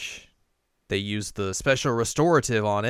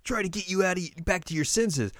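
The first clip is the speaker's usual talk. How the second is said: voicing Inuyasha; 9 semitones higher than usual.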